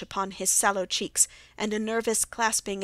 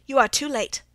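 higher, louder urgent exclamation; crying out; 4 semitones higher, 7 dB louder than usual. A narrator's reading. Watson tells Holmes the grim news, crying out. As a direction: cry out the bad news. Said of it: "I cried".

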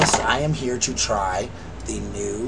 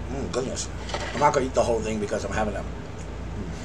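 speaking between bites; talking while chewing. Real, not acted. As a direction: mouth partly full. Seen 2: Holds bitten pastry near mouth; mouth looks partly full while talking.

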